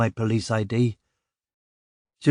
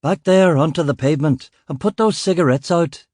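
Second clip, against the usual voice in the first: barked order; 4 semitones higher than usual. Acted. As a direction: drive the crowd back onto the pavement. Ordering crowd off crime scene.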